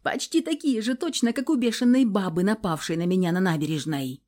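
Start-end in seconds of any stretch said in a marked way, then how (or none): none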